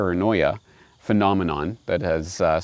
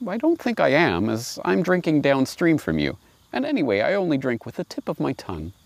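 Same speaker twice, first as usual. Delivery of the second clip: polite lamb; 5 semitones higher than usual. Acted. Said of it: "the lamb replied politely".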